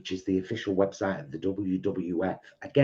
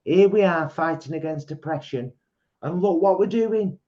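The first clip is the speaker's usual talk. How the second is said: raised, rousing protest cry; rally the crowd, voice lifted high; impassioned stage speech; 10 semitones higher, 7 dB louder than usual. Retold or imitated. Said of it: "I always say".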